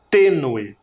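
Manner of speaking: Tênue hit firmly on TÊ, then dropping; stress on TÊ. Shown as a demonstration. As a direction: punch the TÊ in Tênue. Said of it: "ela está demarcada por um acento". (Tênue marcando bem o TÊ)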